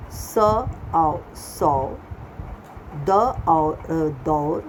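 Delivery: slow sounding out, each part stretched; syllable drill. Acted. Teacher reading words aloud from the textbook: slow, clear sounding out. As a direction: spell it out slowly for the children.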